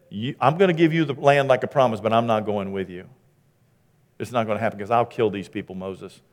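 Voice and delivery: God's words dropped low and soft; intimate hush. Acted. God speaking privately to Moses, low and hushed. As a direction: hush it to a near-private murmur. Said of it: "That's intimate conversation".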